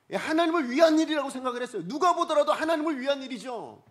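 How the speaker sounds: high, loud pulpit insistence; emphatic preaching. Real, not acted. Preacher arguing David's case to the congregation, emphatic preaching.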